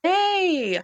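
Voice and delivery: squeaky high yay; high cheer. Real, not acted. Echoing cheer.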